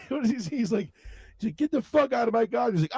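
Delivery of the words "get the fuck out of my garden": high-pitched mock outrage; angry old man. Old man in standoff with Cartman, mock anger. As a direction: order them out, cartoon-style. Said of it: "the old man just get in".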